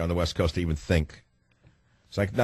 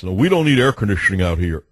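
louder smug local voice, mocked; a hint of a smug Marin local; mocking Marin locals; 5 dB louder than usual. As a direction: parrot the Marinites with a sneer. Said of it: "All the Marinites".

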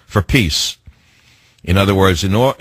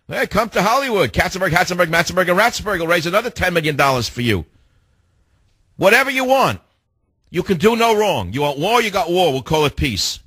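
much higher, hammed-up gushing voice; fawning Hollywood mock; 8 semitones higher than usual. Host mocking Hollywood donors cheering on the president, a high fawning voice. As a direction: gush like a sycophantic Hollywood donor.

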